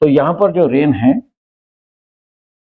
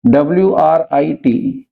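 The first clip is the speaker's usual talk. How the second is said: slow spelling; slower than usual. Shown as a demonstration. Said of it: "जैसे हम बोलते हैं राइट".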